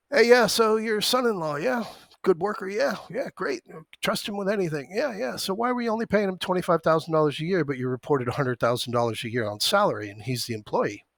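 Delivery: butter him up, then spring the trap; mock sweet interrogator.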